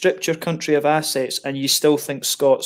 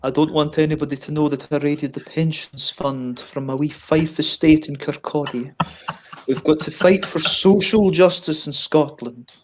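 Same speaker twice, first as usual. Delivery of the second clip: Gordon Brown impression. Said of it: "I heard Gordon Brown on the radio".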